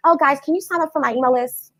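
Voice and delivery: limp, half-hearted request; boring ask. Shown as a demonstration. Coach mimicking a dull email-list plea, limp. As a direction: ask like you expect a no. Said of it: "you sound boring".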